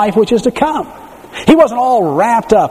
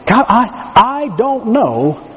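higher, slow, halting grief; grieving widow's prayer; 6 semitones higher, much slower than usual. Retold or imitated. Widow crying out to God after losing her husband. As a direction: falter through it like a new widow. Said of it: "the day may come when you say".

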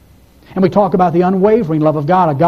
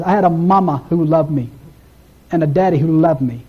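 a lightly voiced imitation of his halting, tender words; David Ring's way of saying it. Preacher quoting David Ring's childhood, a light imitation. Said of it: "that's how he always says".

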